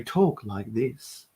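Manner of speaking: slow, low public radio voice. Shown as a demonstration. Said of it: "Everyone's got a really low voice".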